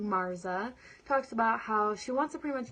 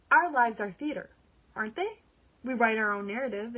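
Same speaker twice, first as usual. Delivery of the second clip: louder, rising question "aren't they?"; declaiming; 6 dB louder than usual. Acted. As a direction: proclaim it to the audience. Climactic declaration in monologue.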